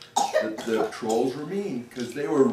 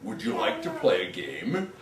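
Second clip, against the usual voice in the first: low, soft, friendly troll; troll inviting the ghost to a game, low and soft; 6 semitones lower, 7 dB quieter than usual. Acted. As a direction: invite him to play like a shy giant. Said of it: "the next troll stepped forward and he said".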